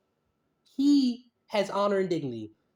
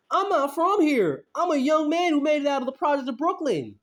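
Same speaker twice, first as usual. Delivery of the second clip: mocking Jay, higher; 7 semitones higher, 4 dB louder than usual. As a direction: ham up the tough-guy claim. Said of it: "So he said".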